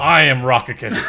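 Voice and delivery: loud, slow, grandly declared; mock villain announcement. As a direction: boom it out as a joke impersonation.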